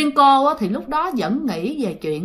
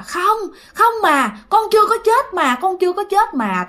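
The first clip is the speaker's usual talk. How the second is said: pleading denial; 8 semitones higher than usual. Retold or imitated. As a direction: act a mother who won't accept the loss. Mother still denies son's death.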